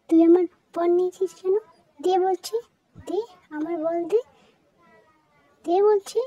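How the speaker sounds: squabbling sister yelling for her ball; angry shouting. Acted. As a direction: snap at your sister to give it back. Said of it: "এত জপ চিৎকার করছো কেন".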